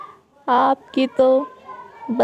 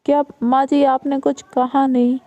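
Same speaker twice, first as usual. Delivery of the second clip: mocking sister-in-law; 3 semitones higher than usual. Elder daughter-in-law mocking new bride.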